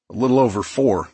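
talking through a mouthful; words round a bite of food; mouth full. Acted. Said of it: "my mouth full".

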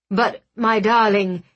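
patient, talking down; as if to a slow child; condescending. Acted. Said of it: "as if I were slow".

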